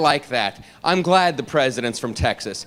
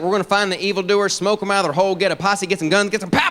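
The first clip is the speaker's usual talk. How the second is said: higher, gung-ho cowboy impression; Bush; 4 semitones higher, faster than usual. President rallying after evildoers, higher gung-ho voice. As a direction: rattle it off like a posse leader. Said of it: "Bush says the stuff I wanna hear".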